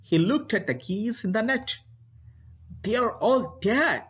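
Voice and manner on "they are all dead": lightly voiced muttering. A narrator's reading. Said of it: "he muttered to himself".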